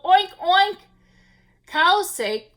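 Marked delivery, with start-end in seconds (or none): 0.0-0.8 higher, louder oinks; piggy oinks. A narrator's reading. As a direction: grunt like a pig. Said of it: "said the turtle".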